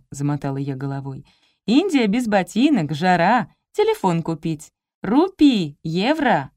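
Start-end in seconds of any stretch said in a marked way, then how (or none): 1.7-6.5 telegraphic foreigner, word groups punched out; lightly put-on tourist speech with lively peaks; lightly voiced pretend foreigner. Playing a foreign tourist to the guard, lightly put-on voice.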